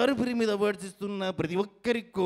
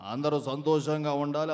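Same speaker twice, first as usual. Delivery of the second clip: low, full-voiced well-wishing; mimicry voice; 5 semitones lower than usual. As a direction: give the blessing in a low, steady put-on voice. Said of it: "unique mimicry concept". (తగ్గు స్థాయిలో నిండైన mimicry గొంతు)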